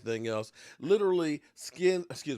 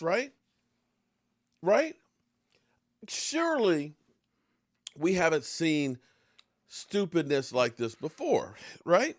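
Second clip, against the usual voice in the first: incredulous right; 3 semitones higher than usual. Real, not acted. Fan ranting about a dumb play call, incredulous. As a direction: demand agreement in disbelief.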